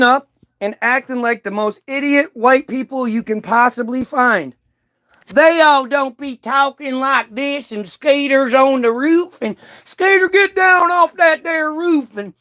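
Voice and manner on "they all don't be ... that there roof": hammed-up country bumpkin yelling get down off that roof; a TV hick character calling to skaters, in a hammed-up twang; Hee Haw hick voice. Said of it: "those guys don't talk like that".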